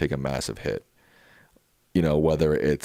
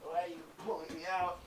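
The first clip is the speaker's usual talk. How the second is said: much higher, quick put-on grumpy dog voice; voicing the dog; 13 semitones higher, 18 dB quieter, faster than usual. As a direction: speak for the lazy dog, whiny and put out. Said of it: "He's like".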